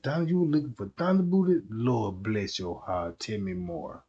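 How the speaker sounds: a mock confessor leaning in, hushed; Pope.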